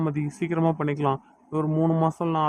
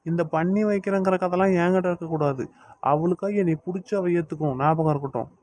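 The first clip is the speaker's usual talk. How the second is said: controlled anger, laying down demands; angry. Acted. Younger brother warns his sister over the promised marriage, angry. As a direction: warn her with restrained anger. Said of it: "ஏன்டா இவ்ளோ கோவப்படுற?".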